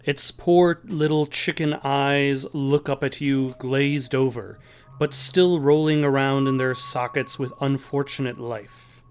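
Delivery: measured, slowed narrator voice; storyteller narrating a creepy find; story narration. A narrator's reading. GM narration of scene.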